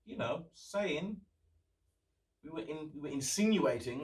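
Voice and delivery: mock the Brexit campaigners' backpedalling; a snide, high mock politician denying everything. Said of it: "And then they were like".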